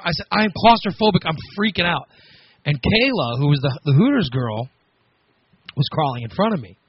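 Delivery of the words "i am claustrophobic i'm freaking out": panicked. Retold or imitated. Panicking in cramped tunnel.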